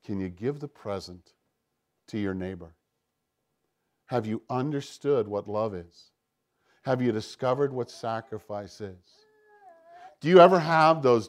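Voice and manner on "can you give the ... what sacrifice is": softer, lower, hushed voice of God; hushed whisper. Acted. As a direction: lean in and murmur the questions gently. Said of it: "And he whispers and he says".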